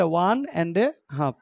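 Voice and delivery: very slow, each word spaced out; slow model reading. Shown as a demonstration. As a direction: say it slowly as a model for the class. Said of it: "তাহলে one and a half". (ধীরে ধীরে উচ্চারণ)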